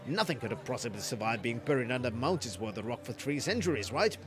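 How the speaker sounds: lightly voiced gruff old miner; a hint of a folksy old man; Painted Mesa voice.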